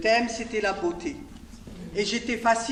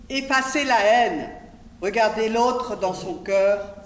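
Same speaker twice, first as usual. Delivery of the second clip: projected, measured poem reading; poetry recitation. Acted. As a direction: declaim the poem line by line, lifting the voice. Reads own poem on Django.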